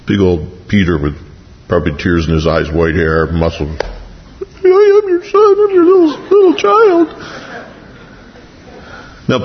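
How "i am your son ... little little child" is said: put-on very high, slow little child's voice; childlike voice. Big old Peter answering Jesus in a tiny child's voice. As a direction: squeak it out like a small child answering his father.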